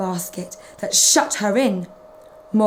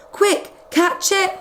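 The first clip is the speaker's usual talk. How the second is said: higher, slow urgent call; nurse's shout; 9 semitones higher than usual. Acted. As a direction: hurry them up. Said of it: "shouted the nurse".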